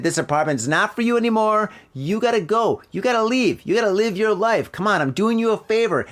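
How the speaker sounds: lightly voiced mom telling her son to get out; lecturing mother. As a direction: push him out the door with a rising pep talk. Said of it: "And she's like".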